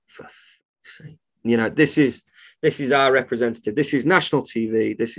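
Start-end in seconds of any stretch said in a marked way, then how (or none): 0.1-1.2 muttered under the breath, slow; a slow whispered curse of disbelief; exasperated whisper. Retold or imitated. Viewer whispering in despair at the TV.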